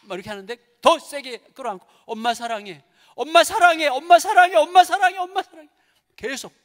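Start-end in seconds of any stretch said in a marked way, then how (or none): 2.1-5.7 climbing from plain to a loud, high outburst; rising emotional cries. Retold or imitated. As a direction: shout it louder each time as it wells up. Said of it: "자기 속에서 북받쳐서". (북받쳐서 점점 높고 크게 외치는 엄마 사랑해)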